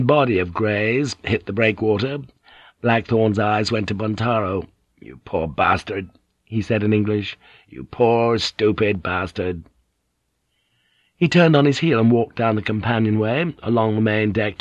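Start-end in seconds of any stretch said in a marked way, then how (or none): 5.0-9.6 pitying. Acted. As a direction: mutter with grim pity. Blackthorn pities Buntaro.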